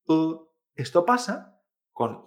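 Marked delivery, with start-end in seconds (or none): 0.1-0.5 U as the muffled vowel of Chinese I; I como U. Shown as a demonstration. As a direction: hold U instead of saying I. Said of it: "se pronuncia U". (U sostenida en lugar de I)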